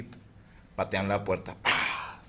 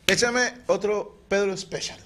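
higher and slow, drawn-out order; booming bar order; 11 semitones higher, 4 dB louder, slower than usual. Retold or imitated. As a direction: stretch the order out like a tough guy at the bar. Same customer orders again. (pedido lento y alto, de cantina)

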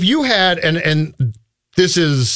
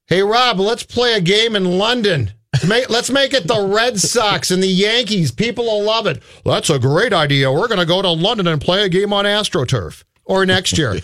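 mock executive voice; 4 semitones higher than usual. Mocking baseball execs' idea.

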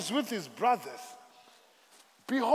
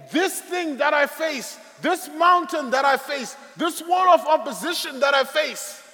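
mock defiant declaration; 4 semitones higher, 4 dB louder than usual. Congregation voiced boasting of problems.

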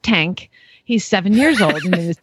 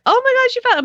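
much higher, thrilled gasp; excited owner; much faster than usual. Retold or imitated. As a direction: gush like a relieved owner. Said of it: "they are like".

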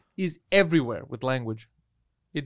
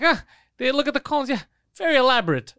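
friend's voice; 8 semitones higher than usual. Retold or imitated. Friend voiced smugly misusing word.

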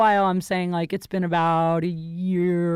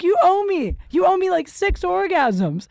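retold angry demand; 8 semitones higher, 4 dB louder than usual. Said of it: "I was so mad".

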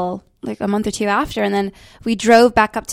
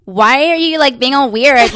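puzzled friends; 3 semitones higher, 6 dB louder, slower than usual. Retold or imitated. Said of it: "everyone else was like".

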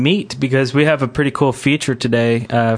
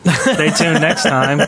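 laughing sign-off; 4 semitones higher, slower than usual. Acted.

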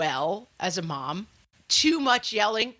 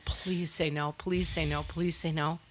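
low, hushed begging on repeat; quiet pleading; 3 semitones lower, 6 dB quieter than usual. Pretend. Mom begging her co-host to say no, quiet pleading. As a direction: murmur it like a desperate little prayer.

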